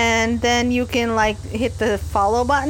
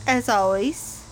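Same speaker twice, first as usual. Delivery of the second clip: fall asleep voice; 3 dB quieter than usual. Pretend. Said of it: "This is me using my fall asleep voice".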